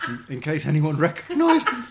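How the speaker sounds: words broken up by laughter; laughing. Real, not acted. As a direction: laugh through the line. Laughing while telling funny story.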